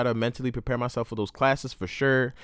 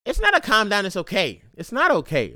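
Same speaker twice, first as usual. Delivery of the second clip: louder retort; 6 semitones higher than usual. Real, not acted. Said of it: "you got people like".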